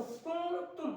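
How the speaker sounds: کنتم slow, the م before ب hidden in a nasal hum; ikhfa with ghunna. Shown as a demonstration. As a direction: stretch کنتم gently through the nose. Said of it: "کن یہاں پہ کن نہیں بولیں گے".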